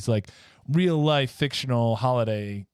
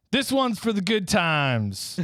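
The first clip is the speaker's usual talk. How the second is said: slow toast; 9 semitones higher, slower than usual. Shown as a demonstration. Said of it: "Rudolph says".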